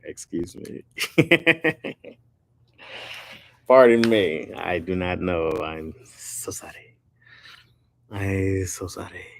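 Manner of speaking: slow, deliberate mock-Asian apology; mock Asian accent. Streamer apologizing to viewers for not knowing blues, mock Asian accent. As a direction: put on a caricatured Asian accent, drawn out. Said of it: "in the Asian guy voice".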